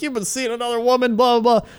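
high-pitched imitation of an accusing wife; mild mock outburst, tossed off in retelling; mock yelling. Wife confronting husband at the pharmacy, mock yelling. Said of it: "they just start yelling".

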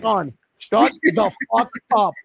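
mock coach telling off. Voicing Brady scolding McDermott.

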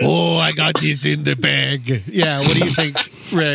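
cocky actor quote. Retold or imitated. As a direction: draw it out, pleased with yourself. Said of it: "yeah, he was like".

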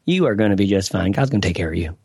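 put-on light Southern accent, pitched low. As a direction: imitate an older Southern lady's lilt lightly. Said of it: "say in a little Southern accent".

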